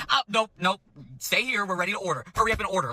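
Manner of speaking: imitated customer interruption; mock impatient customer. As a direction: mimic a bossy diner brushing someone off.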